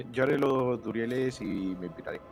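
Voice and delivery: ordinary talk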